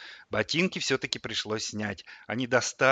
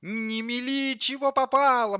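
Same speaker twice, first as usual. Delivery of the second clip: very high microwave voice; dismissive rebuke; 13 semitones higher, 5 dB louder than usual. A narrator's reading. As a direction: scold her in a high pitch. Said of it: "махнула на неё дверцей микроволновка". (высоким голосом, одёргивая)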